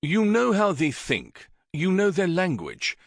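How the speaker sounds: king urges Syn, pleading. Acted. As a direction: keep pressing him to agree.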